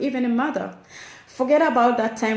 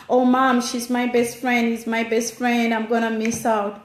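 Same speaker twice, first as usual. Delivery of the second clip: put-on pleading teenager. Acted teenager pleading with parent.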